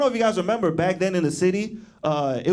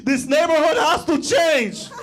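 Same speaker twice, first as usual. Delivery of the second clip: hammed-up tearful mother; mom crying; 9 semitones higher, slower than usual. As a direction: wail like a frightened older Latina mom. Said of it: "she was like".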